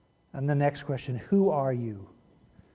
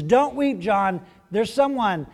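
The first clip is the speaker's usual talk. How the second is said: angel comforting; 8 semitones higher, 9 dB louder than usual. Retold or imitated. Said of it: "the angel says".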